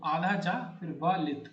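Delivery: slow, letter by letter, आधा जा फिर व लित; slow spelling of आधा जा फिर व लित for the class. Shown as a demonstration. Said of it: "double जा नहीं होता".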